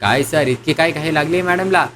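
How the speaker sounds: knowing, amused insinuation; mischievous teasing. Acted. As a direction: sly remark tipping into laughter. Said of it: "त्याने एक खोडकर हास्य".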